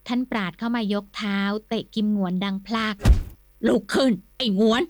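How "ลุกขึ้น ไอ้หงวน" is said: furious order. Acted. The furious lord kicks Kimnuan and orders him up. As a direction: bark at him after the kick. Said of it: "เดือดดาลอาเสียอย่างที่สุด".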